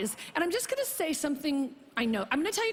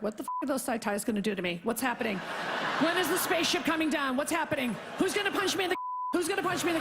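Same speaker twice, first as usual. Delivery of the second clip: mock paranoid; faster than usual. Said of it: "getting all paranoid".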